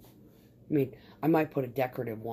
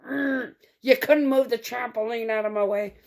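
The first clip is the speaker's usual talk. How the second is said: high, loud mocking sarcasm; hammed-up sarcastic retort; sarcastic jab; 9 semitones higher, 6 dB louder than usual. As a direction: needle him with exaggerated sarcasm. Retold sarcastic jab at plumber.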